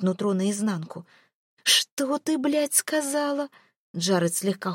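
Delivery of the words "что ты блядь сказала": higher, slow and seething; enraged Jared. A narrator's reading. Jared furious at Mel's defiant answer, slow seething rage. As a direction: spit out the question in fury, slowly.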